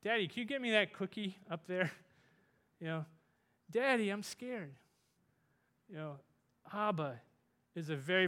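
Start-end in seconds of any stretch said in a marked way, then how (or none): 0.0-1.9 put-on little child asking. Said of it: "a little child saying". 3.7-4.7 put-on scared child. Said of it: "a little child saying".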